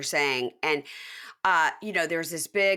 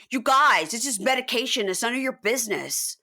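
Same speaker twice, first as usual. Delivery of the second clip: mock indignant protest; 5 semitones higher than usual. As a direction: imitate an indignant outburst, pitched up. Retold outburst at the group.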